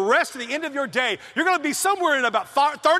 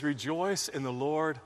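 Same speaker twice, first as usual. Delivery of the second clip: lower, softer, slowed reading of Paul; soft quoted scripture; 9 semitones lower, 7 dB quieter than usual. Retold or imitated. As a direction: read it hushed and reverent. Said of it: "But yet he says".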